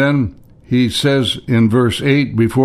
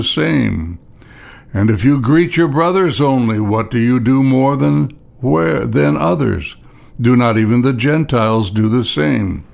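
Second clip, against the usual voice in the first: measured reading with pauses between phrases; scripture reading. Acted. Preacher reads Sermon on the Mount to congregation, measured scripture reading. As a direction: read the verses out deliberately, phrase by phrase. Reads verses from chapter five.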